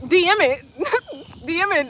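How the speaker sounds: high, loud teasing order; teasing instruction. Real, not acted. Streamer telling weird commenters to DM instead, laughing. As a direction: tell them to take it private, grinning.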